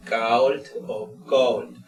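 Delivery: cold first with an A leaning toward O, then an O leaning toward A, slowly; two vowel variants. Shown as a demonstration. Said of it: "A tendiendo a O, o una O tendiendo a A".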